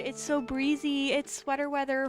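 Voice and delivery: mock delight at sweater weather; retold excitement. Friends at the park, a light mock-excited gush. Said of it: "we were so excited at the cooler weather".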